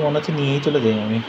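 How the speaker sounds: ordinary delivery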